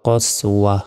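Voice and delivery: কস ওয়াহ as pronounced at a pause; stopping form. Shown as a demonstration. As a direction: end ওয়াহ on an audible h. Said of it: "উচ্চারণটা কি হবে?".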